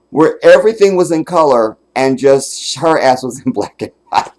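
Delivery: laughing through it. Real, not acted. Laughing while describing skit.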